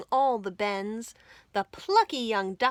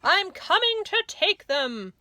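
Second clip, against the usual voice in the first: higher, loud greedy yell; 9 semitones higher, 6 dB louder than usual. A narrator's reading. Rat yells into the cave for the sweets. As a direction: shout it, eyes on the prize. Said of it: "the rat thief yelled".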